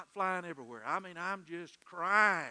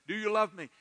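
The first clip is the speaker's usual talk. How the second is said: loud, raised, pressing question; insistent repeat; 5 semitones higher, 7 dB louder than usual. Acted. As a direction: repeat the question forcefully, pitched up. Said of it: "He just kept repeating".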